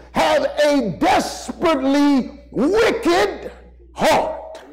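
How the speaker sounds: rising, building sermon cry; preaching at full force. Acted. Preacher to congregation, preaching with full force.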